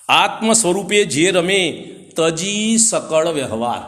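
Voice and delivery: slow, drawn-out scriptural recitation; verse recitation. Shown as a demonstration. Preacher recites the next verse to listeners, slow and drawn out. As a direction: recite the verse measuredly, stretching the words.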